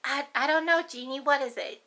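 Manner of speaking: mock innocent grandma; lightly hammed-up cluelessness; playing dumb. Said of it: "I'm gonna play stupid".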